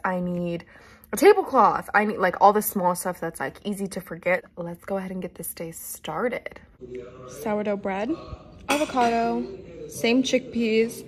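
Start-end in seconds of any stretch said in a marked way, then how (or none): 4.5-6.6 whisper. Real, not acted. Starting the day, hushed.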